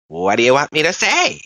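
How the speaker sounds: leprechaun voice. Retold or imitated. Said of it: "he did it in the leprechaun voice".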